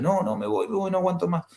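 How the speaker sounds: voz de mujer desesperada, más aguda, apenas insinuada; angustia imitada. Retold or imitated. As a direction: imitando a alguien que ya no aguanta. Mujer angustiada quiere irse. (mujer desesperada que no aguanta más, imitada de forma leve)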